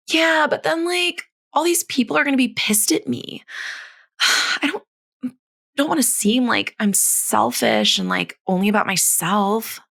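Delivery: put-on high, whiny Valley Girl-style complaint; whiny listener voice. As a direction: whine it like a worried listener. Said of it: "I don't know what's with my voices today".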